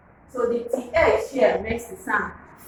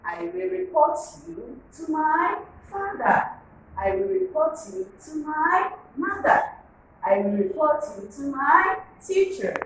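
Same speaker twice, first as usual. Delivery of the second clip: higher, careful teacher read of the right phrasing; model sentence; 5 semitones higher, 3 dB quieter than usual. Shown as a demonstration. Teacher showing pupils the correct phrasing, high and careful. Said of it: "What you should say is".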